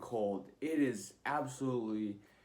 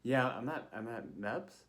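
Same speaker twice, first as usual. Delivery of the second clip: halting reply with a questioning rise; retold unsure, polite answer; hesitant answer. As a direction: answer the officer carefully, stumbling a little. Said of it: "but I was like".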